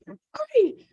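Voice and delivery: high, loud sarcastic "Great". Retold or imitated. Grieving woman answering her friend sarcastically, high. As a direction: toss it off with bitter irony.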